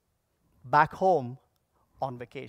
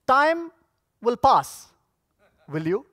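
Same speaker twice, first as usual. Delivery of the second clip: stern professor; 4 semitones higher than usual. Retold or imitated. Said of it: "paused and said".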